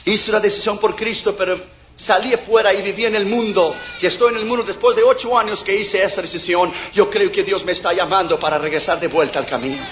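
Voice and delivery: understated crying voice; tearful confession. Retold or imitated. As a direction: retell the boy's confession quietly, near tears. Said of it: "Empezó a llorar y dijo".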